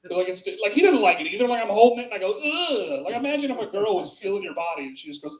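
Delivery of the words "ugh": long, higher-pitched mock groan of revulsion; disgusted groan. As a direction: groan as if touching something revolting. Imitates his revulsion at the tumor.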